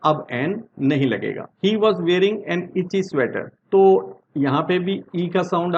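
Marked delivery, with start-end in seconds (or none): 1.6-3.5 slow example read. Shown as a demonstration. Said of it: "teacher reads example sentence slowly".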